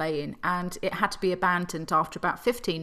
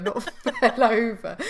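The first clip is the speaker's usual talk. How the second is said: rejected word laughing; 2 semitones higher than usual. Shown as a demonstration. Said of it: "They keeled over".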